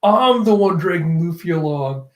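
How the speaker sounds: mildly huffy acted retort; mock-indignant objection; annoyed. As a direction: protest with a touch of irritation. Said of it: "Shichi's getting all annoyed".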